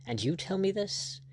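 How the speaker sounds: high, incredulous question; bewildered. A narrator's reading. Lord staring at his rival, bewildered disbelief. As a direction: let the pitch climb in disbelief. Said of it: "Lord Julian stared at him bewildered".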